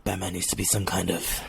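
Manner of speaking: a hint of low, brooding crimefighter; Bruce Wayne. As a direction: muse it quietly, trailing down low. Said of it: "And then Bruce is like".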